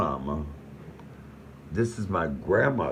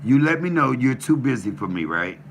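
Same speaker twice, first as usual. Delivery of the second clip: loud, higher, heated pleading; hurt angry rant; 7 semitones higher, 5 dB louder than usual. Real, not acted. Son telling off his father on the phone, loud hurt rant. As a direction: let the hurt boil over into shouting.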